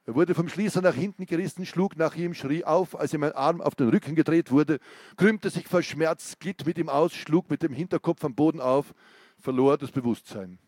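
gripping reading of an interrogation scene; story narration. A narrator's reading. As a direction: read it like a tense crime novel. Author reads thriller interrogation scene.

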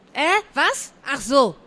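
flustered schoolboy surprise; startled call. A narrator's reading. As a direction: react as if caught not listening. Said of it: "rief Malte".

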